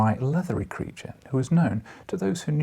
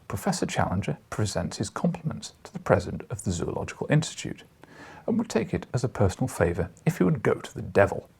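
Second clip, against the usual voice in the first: mock formal reply. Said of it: "a bowdlerised version of it would run".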